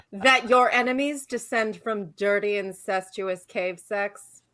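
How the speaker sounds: slow, deliberate delivery for a clean clip; drawn-out, emphatic re-take. Shown as a demonstration. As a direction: repeat it slowly, starting loud. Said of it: "say that one more time slower".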